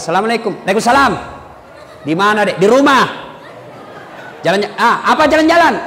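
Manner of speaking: brisk, no-nonsense phone voice; firm phone answer. Shown as a demonstration. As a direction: answer firmly, no sweetness. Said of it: "kalau kau tegas terima telepon". (suara tegas menerima telepon)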